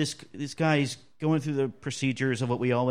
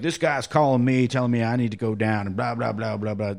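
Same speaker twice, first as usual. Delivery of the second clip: redneck guy; 5 dB louder than usual. Retold or imitated. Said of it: "You know, redneck guy".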